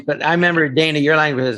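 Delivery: ordinary delivery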